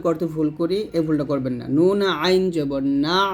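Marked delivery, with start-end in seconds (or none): 3.1-3.2 না closed with a squeezed throat sound; pressed ain. Shown as a demonstration. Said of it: "এরকম চাপ দিবেন".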